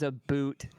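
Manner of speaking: "a boot" with a long oo; "a boot" for about. Retold or imitated. Complaining about a YouTuber, "a boot" with oo. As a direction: say "a boot", rhyming with suit. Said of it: "the dude just says".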